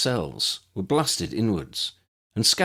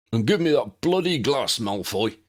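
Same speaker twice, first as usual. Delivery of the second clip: commanding; 5 semitones higher than usual. A narrator's reading. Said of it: "the other voice commanded".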